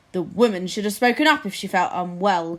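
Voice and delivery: a touch of a gruff grunt; grunting lord. Acted. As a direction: grumble it from the cushions. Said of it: "grunted Flapoon".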